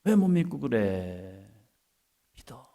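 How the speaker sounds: normal talking voice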